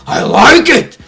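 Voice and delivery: high, loud burst of glee; a sudden high, loud cry of delight; excited shout. Real, not acted. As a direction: yell it out thrilled. Excited WrestleMania prediction outburst.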